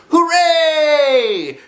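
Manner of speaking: high, bright bear voice calling out; Pooh's cheerful cry. Acted. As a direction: call like a happy little bear. Pooh voiced by narrator.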